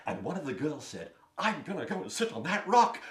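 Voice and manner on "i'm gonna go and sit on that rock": put-on girl's voice. Girl voiced in story.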